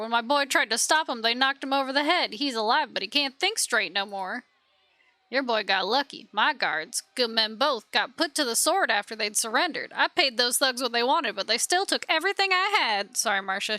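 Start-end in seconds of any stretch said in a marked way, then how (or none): 0.0-4.5 put-on aggrieved farmer with a Southern accent; lightly voiced Southern farmer. Farmer protesting burned crops to the ruler, in a Southern accent. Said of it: "She hates the southern accent". 5.3-13.2 put-on merchant's grievance in a Southern accent; lightly voiced Southern trader. Robbed merchant telling of slain guards, in a Southern accent. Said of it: "She hates the southern accent".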